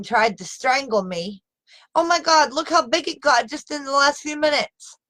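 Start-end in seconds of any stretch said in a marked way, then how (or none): 1.9-5.0 a sudden jump up, startled by her own neck; alarmed surprise. Real, not acted. Woman on live video sees her neck swell, alarmed surprise. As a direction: gasp it out as the swelling grows.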